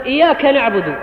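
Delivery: إياك with a quick single y, iyaaka; undoubled y. Shown as a demonstration. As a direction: say إياك without doubling the y. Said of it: "وإنما يقول". (إياك بياء مخففة)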